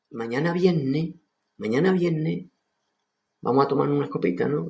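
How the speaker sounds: "mañana viernes" with the r dropped, as "viénne"; Sevillian accent. Shown as a demonstration. Teacher imitating a local from Seville. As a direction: Andalusian "viernes" with a doubled n. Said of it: "el sevillano dice".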